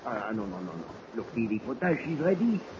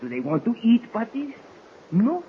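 rising excitement, louder; excited storytelling; 5 dB louder than usual. Acted. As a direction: build the tall tale up big. Baptiste tells wolf tale.

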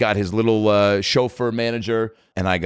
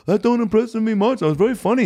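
very high mock-British voice; a famous singer; 12 semitones higher than usual. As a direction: caricature a British star quoting a joke back. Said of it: "a caricature of a, of a British guy".

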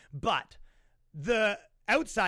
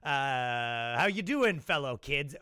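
awkward adult; slower than usual. Retold or imitated. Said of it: "has a big".

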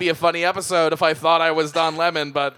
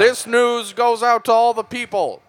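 raised newscaster read, slightly louder; news voice; 3 semitones higher, 3 dB louder than usual. Acted. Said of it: "use your real news voice".

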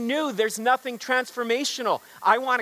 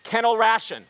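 Kennel Ration called out louder, with energy; enthusiastic call; 2 semitones higher, 4 dB louder than usual. Shown as a demonstration. Pastor showing the congregation how to shout Kennel Ration with enthusiasm. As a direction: pump up the crowd on Kennel Ration. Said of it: "say it with some enthusiasm".

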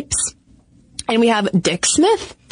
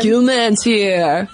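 frat bro; much slower than usual. Pretend. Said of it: "like a frat bro's nickname".

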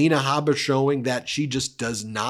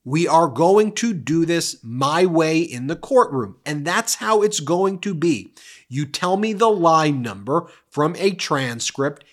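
stern judge; 3 semitones higher, 3 dB louder than usual. Retold or imitated. Judge scolding the lawyer, imitated loud stern rebuke. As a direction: lay down the law, imitated. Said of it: "And Judge Kaplan goes".

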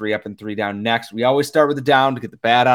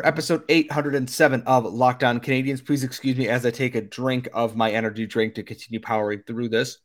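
tired, hoarse voice. Real, not acted. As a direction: voice worn out from talking. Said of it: "voice is a little bit shot".

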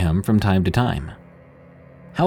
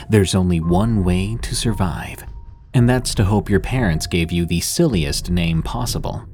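ominous late night radio. Acted. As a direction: spin a spooky hook for listeners. Ominous horror podcast intro.

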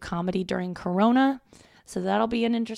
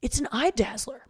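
dad proudly declaring "It's an eye dazzler"; light impression of dad praising the rug; imitating dad; 5 semitones higher than usual. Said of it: "My dad's like".

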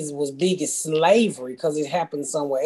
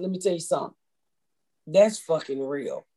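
serious husband; 3 dB quieter than usual. Retold or imitated. Husband sets her straight.

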